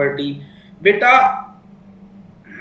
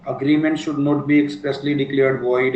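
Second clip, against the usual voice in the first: slow recital; 4 semitones lower, much slower than usual. Shown as a demonstration. Repeating the point, slower.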